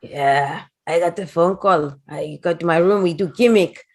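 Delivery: lightly voiced wrestler in broken English; a hint of a heavily accented wrestler's swagger; Iron Sheik. Wrestler propositioning Missy at her table, light impression. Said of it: "In comes the Iron Sheik, like, strolling".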